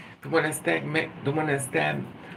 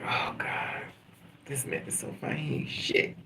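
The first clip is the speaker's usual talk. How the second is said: hushed mock swoon; 6 dB quieter than usual. Woman to herself about a handsome man, hushed mock swoon. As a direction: murmur it privately as if overcome.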